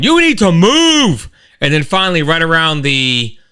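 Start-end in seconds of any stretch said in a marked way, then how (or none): 0.0-1.3 much higher and louder, drawn out word by word; exasperated slow shout; slow road rage yell. Retold or imitated. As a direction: spell it out to the slow driver. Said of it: "a little road rage going on".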